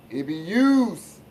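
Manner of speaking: lightly put-on Italian accent, drawn out slowly. Sports host jokingly addressing rival fans, mock Italian voice. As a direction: stretch it with a hint of Italian. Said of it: "in my Italian voice".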